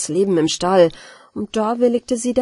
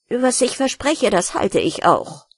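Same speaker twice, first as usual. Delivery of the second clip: grumpy; 2 semitones higher than usual. Acted. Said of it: "sprach die Ratte sehr mürrisch".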